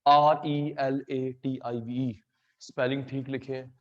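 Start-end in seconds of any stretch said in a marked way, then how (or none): 0.1-2.2 letters spelled one by one, slow; spelling out slowly. Shown as a demonstration. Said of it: "spelling same लिखे हैं". (अक्षर-अक्षर धीरे बोलना)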